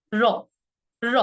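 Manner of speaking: "র" as one quick tongue tap at the tooth ridge; light tapped r. Shown as a demonstration. Teacher showing students the easy r, lightly tapped. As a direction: tap "র" once with no pressure. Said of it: "কোনো pressure ছাড়া".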